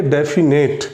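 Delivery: डेफिनेट sounded out in parts, "defi-net"; pronunciation demo. Shown as a demonstration. Teacher asking students to watch the pronunciation, डेफिनेट sounded out as defi-net. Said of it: "आप उच्चारण देखिए".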